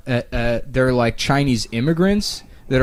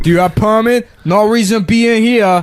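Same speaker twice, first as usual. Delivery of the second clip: much higher, louder hammed-up broken-English accent; mock shopkeeper accent; 10 semitones higher, 6 dB louder than usual. Chinatown gun store owner grilling a customer, loud mock accent. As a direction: play the grumpy gun store owner for laughs. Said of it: "What a great accent".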